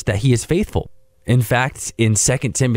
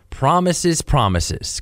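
sarcastic; 3 semitones higher, much slower than usual. Retold or imitated. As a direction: roll your eyes as you say it. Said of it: "kind of sarcastically".

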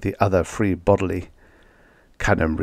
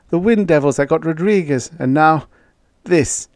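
uneasy dread; 8 semitones higher than usual. A narrator's reading. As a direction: let the dread build. Canham dread.

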